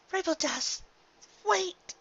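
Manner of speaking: high, rising call to stop her. Acted. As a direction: plead with her to stay. Calling after leaving friend.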